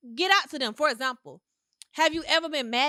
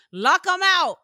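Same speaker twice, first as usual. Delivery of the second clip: emphatic; 6 semitones higher, 9 dB louder, slower than usual. Real, not acted. Blunt advice, louder.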